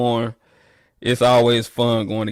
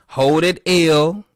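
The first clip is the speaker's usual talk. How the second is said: taunting; 6 semitones higher, 4 dB louder, slower than usual. Real, not acted. Taunting Alcorn over their loss.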